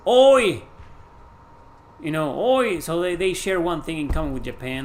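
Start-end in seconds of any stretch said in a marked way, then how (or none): 0.1-0.6 loud high oi called out; imitating English oi. Streamer imitates English people calling out. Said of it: "a lot of people said". 2.4-2.8 imitating oi. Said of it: "a lot of people said".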